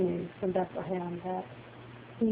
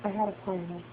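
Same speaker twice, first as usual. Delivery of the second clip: quiet words of God; 8 dB quieter than usual. Acted. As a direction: softly pass on what God said. Quotes God's words to her heart.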